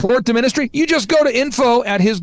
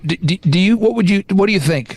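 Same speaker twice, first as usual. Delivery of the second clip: hesitant question. Retold or imitated. Retold employee hesitantly asking his opinion.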